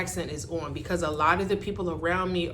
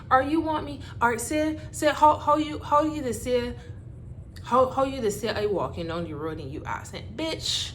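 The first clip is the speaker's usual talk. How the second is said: put-on Bajan accent; 5 semitones higher, 4 dB louder than usual. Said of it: "frustration of constantly having to repeat myself".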